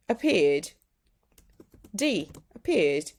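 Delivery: "Appeared" ending on a plain "d", no extra syllable; voiced d ending. Shown as a demonstration. Teacher showing the "d" ending of "Appeared". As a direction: close "Appeared" on a short "d". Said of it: "will be appeared".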